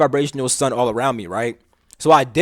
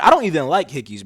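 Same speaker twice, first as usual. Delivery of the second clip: usual speaking voice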